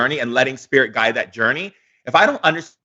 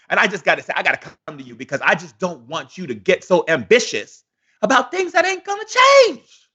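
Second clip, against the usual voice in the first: lightly voiced preacher-like older brother, at times much higher; a hint of a warning elder pleading; doubting church brother; 5 semitones higher than usual. Friend warning Martin Luther King about his dream, lightly voiced doubter. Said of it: "people of his own color came to him and said".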